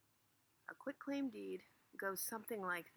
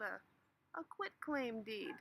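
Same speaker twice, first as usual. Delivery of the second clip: drawn out; slower than usual. Acted. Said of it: "Yeah, that's right".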